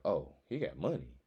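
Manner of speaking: playing the girl plotting her move; voicing a woman. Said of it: "She like".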